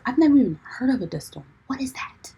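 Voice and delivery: high, incredulous outburst; baffled disbelief. Retold or imitated. Driver hears from her sister about dust storms, baffled disbelief. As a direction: react as if it's utterly unheard of.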